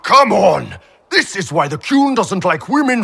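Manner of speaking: loud, high, impatient "come on"; frustrated shout. Acted. Bull loudly goading his training partner to hit harder.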